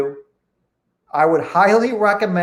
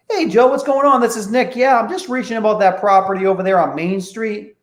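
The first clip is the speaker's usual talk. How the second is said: very friendly, matter of fact; 3 semitones higher than usual. Shown as a demonstration. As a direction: talk like you know this guy. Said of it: "And I sound very friendly".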